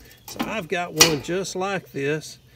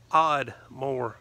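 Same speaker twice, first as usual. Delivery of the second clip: Oddmore said with the r dropped, like Odd-more; local Oddmore; 2 semitones lower than usual. Retold or imitated. Locals naming their own town, southern Oddmore with no r. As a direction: Oddmore as the Ardmore locals say it, in a light southern accent. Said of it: "Over there they pronounce it Oddmore".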